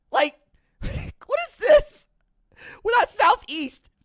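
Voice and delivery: high, slow, half-laughing wail of disbelief; mock disbelief. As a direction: stretch it out like a whiny protest. Mock outrage at division names.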